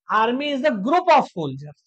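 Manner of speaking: spelled out slowly for the class; very slow teacher definition; slow dictation. Shown as a demonstration. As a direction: dictate each word slowly.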